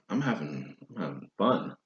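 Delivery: slurping tea between words; sipping hot tea. Real, not acted. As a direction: talk around a sip of tea. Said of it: "Sorry for that slurping".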